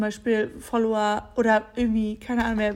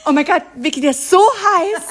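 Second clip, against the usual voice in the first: laughing swoon; 5 semitones higher, 8 dB louder than usual. Real, not acted. Friend gushing to friend over the guy, laughing swoon. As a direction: melt with laughter over him.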